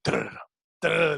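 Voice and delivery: rolled-tongue drum noise; trilled drum fill; imitated drum roll. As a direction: mimic a drum roll with your mouth. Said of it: "the Baywatch drums".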